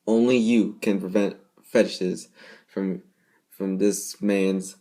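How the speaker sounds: slow, loud pleading announcement; mock public service plea. Reviewer pleading to viewers in a mock ad, slow and loud. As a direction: plead like a PSA ad.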